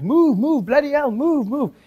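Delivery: high-pitched imitation cop moving people along; mock police orders, repeated urgently; policeman ordering a crowd. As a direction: play an impatient officer clearing the street. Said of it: "he's like".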